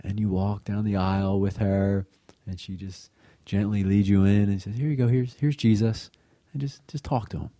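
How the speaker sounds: gently coax, lifting the pitch; gentle voice. Retold or imitated. Aunt reassuring a nervous girl before confession, gentle voice. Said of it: "in her gentle voice said".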